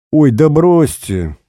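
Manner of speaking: slow, waving it off; can't be bothered; brushing off the old man's excuse; lazy dismissal. Acted. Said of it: "лениво отмахнулся Игнат".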